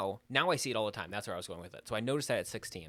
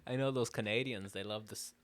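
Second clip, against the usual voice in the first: bad Canadian accent. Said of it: "That was a really bad Canadian accent".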